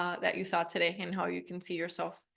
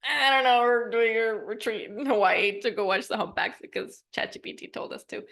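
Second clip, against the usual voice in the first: loud, high, lazy mocking quote; mock a lazy prompt; blah mock voice; 3 semitones higher, 6 dB louder than usual. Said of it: "It was pretty, like, blah, like".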